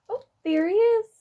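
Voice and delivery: high, loud delighted "oh, there he is"; excited discovery. Acted. Reading to children, spotting the caterpillar: excited. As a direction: point it out with a bright burst of delight for kids.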